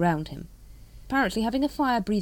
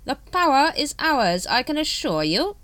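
smooth; 9 semitones higher, 6 dB louder than usual. A narrator's reading. Supreme Grand Master reassuring the brethren, smooth. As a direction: draw it out smoothly, pitched up. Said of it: "Supreme Grand Master smoothly".

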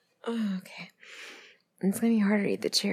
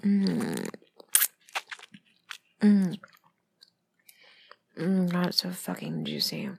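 chewing while talking; mouth full; slower than usual. Real, not acted. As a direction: talk around a mouthful of cherry. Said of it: "sorry, I'm chewing".

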